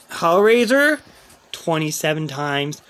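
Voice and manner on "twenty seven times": low, quiet statement of the count; stunned disbelief. Real, not acted. Player seeing the death count, stunned. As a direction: say it softly, stunned.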